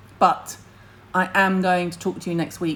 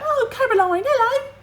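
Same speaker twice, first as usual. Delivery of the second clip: much higher, gushing sing-song greeting; imitating Ree; 4 dB louder than usual. Mimicking Ree greeting Caroline, very high and gushing. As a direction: squeal hello like a delighted friend. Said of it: "That's exactly how she talks".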